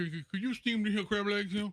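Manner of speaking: indistinct, mumbling character voice. Going through their repertoire of voices, a speaker shows off the mumble man voice. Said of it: "I've done a mumble man before".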